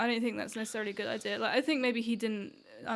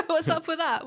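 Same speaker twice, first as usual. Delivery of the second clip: hint of Long Island; 4 semitones higher, 4 dB louder than usual. Real, not acted. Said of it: "You sounded, you sounded so Long Island there".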